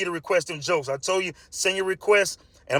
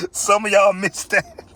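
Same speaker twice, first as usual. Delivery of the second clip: slow tease; 3 semitones higher, 4 dB louder, slower than usual. Real, not acted. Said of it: "repeats remark slowly".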